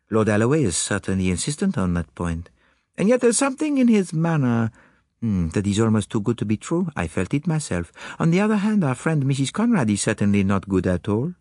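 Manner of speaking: put-on accented, courteous detective voice; Poirot. Detective dismissing the maid, courteous accented voice. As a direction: play the polite French-speaking detective. Poirot's dialogue in narrated story.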